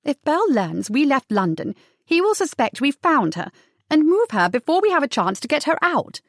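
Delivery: urgent high, swooping lady's voice; worried lady, pitch climbing high; anxious aristocratic lady. Acted. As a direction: press the urgency in a well-bred voice. Cornelia argues urgency.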